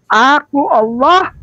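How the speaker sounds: "Aku Allah, Tuhanmu" drawn out word by word, slowly; slow solemn translation. Shown as a demonstration. Teacher translating the verse for viewers, slow and deliberate. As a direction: give the meaning slowly and deliberately. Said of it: "kita ambil itu tiga kata".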